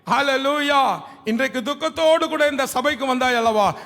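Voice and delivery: building to a loud rallying call; impassioned preaching. Real, not acted. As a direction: proclaim the promise, swelling in volume to the end. Preaches promise to congregation.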